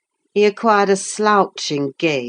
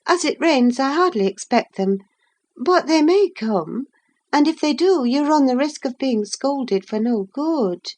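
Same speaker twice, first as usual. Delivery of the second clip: put-on higher girlish voice, mildly scolding; young Catherine, chiding; 9 semitones higher than usual. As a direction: Catherine nudging Heathcliff back to work.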